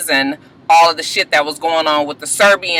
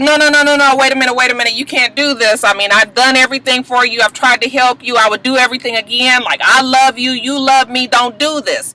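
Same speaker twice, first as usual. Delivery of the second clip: higher-pitched retold begging; pleading girlfriend; 5 semitones higher than usual. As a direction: imitate a girlfriend pleading with him to stay. Retold girlfriend begging not to leave.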